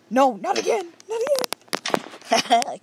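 high, slow stretched wail; dismayed wail. Real, not acted. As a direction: wail it out long. Failing again.

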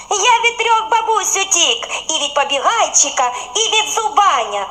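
high boast with laughter; sing-song brag, laughing through it; bun laughing. A narrator's reading. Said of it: "сміється, заливається рум'яний". (колобок заливається сміхом)

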